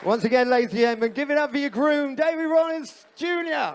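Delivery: host announcing to the room, building to a call; rally the guests for the groom's father; MC hype announcement. Real, not acted.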